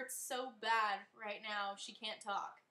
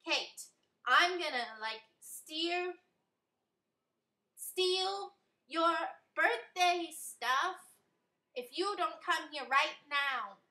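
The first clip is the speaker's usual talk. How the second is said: goofy high voice; 6 semitones higher, 7 dB louder, slower than usual. A narrator's reading. Amy threatens in goofy voice.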